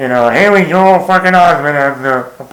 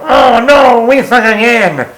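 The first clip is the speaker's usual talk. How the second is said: imagined Happy losing it; 6 semitones higher, slower than usual. Pretend. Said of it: "and go".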